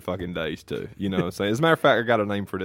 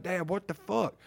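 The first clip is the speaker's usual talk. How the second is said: high-pitched, exasperated retold shout at dad; mock-exasperated outburst; exasperated yell; 9 semitones higher, 5 dB quieter, slower than usual. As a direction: throw it up at dad in disbelief. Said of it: "I'm like".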